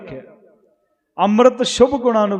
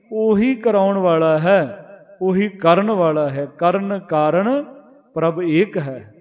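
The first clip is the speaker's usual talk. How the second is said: slow scripture recitation; slower than usual. Acted. Preacher reciting gurbani verse to the congregation, slow and reverent. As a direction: chant the verse slowly, each phrase drawn out.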